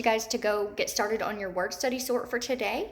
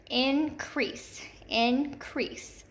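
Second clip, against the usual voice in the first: Increase in two careful syllables, weight on -CREASE; stress on second syllable; 2 semitones higher, much slower than usual. Shown as a demonstration. Teacher shows class the accented E in Increase, second syllable stressed. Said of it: "we hear that accented syllable in our second".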